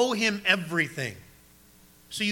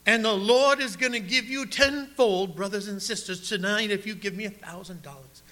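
put-on southern televangelist accent; 3 semitones higher than usual. TV evangelist promises tenfold return, mock southern accent. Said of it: "they all have a southern accent".

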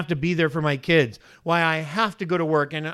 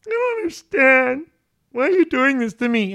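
high, loud, hammed-up exasperated complaint; irritated at God; 10 semitones higher, 8 dB louder than usual. Preacher mimicking a bill-stressed believer praying, irritated and loud. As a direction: whine loudly at God in mock outrage. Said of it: "all irritated at God and saying".

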